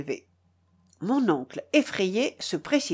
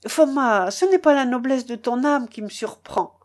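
mildly raised, eager voice; charmed admiration; 3 semitones higher, 4 dB louder than usual. Acted. Charmed uncle praising Foma, eager admiration. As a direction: marvel warmly at a friend. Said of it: "poursuivit mon oncle charmé".

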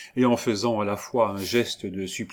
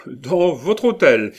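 slow, louder, with hôtel falling; amused; 6 semitones higher, 8 dB louder, slower than usual. A narrator's reading. Cellini teases the provost again, amused falling repeat. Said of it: "dit en riant".

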